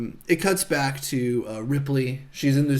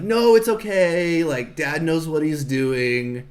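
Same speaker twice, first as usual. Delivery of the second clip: mock reassurance; 2 semitones higher, 3 dB louder, slower than usual. Retelling one kid telling another Dad is fine, reassuring. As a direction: act out a child soothing a sibling, stretching the words.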